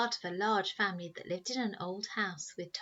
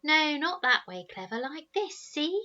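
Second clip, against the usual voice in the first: put-on boys calling; 7 semitones higher, 6 dB louder than usual. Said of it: "cries of".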